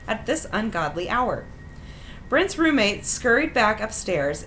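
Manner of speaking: measured, wry read-aloud of a personal story; story narration. A narrator's reading. Host reading out an embarrassing dating story, measured narration. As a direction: read it out neatly like a written memoir.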